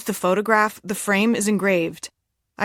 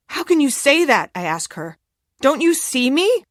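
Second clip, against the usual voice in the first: hysterical; 6 semitones higher, 4 dB louder than usual. A narrator's reading. Hysterical confrontation with her mother.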